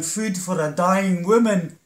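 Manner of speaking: calling out for food at the workhouse gate; crying out. Acted.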